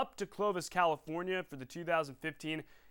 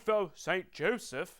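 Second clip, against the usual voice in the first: put-on English accent; slower than usual. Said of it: "It's my best English accent".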